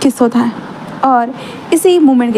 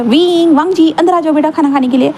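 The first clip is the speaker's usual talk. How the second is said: calling out loudly; 3 semitones higher than usual. Acted. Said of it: "जोर से चिल्ला".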